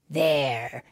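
slightly deep, satisfied fox. Acted. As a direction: announce the job done. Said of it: "said the fox".

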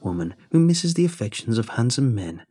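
put-on woo him like an ugly old hag. Hag asking for a kiss.

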